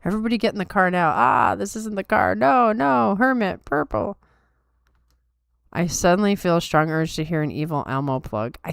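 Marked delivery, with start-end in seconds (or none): 0.0-4.2 lightly voiced anime character, rising as it goes; Jonathan Joestar. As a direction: do a slight put-on cartoon hero voice. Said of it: "I'm doing Jonathan Joestar".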